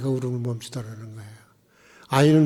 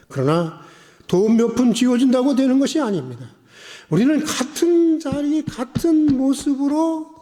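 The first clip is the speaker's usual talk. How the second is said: raised, emphatic pulpit voice; impassioned preaching; 9 semitones higher, 5 dB louder than usual. Acted. Preacher urging listeners to stand in the same place, impassioned preaching. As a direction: drive the point home to the congregation.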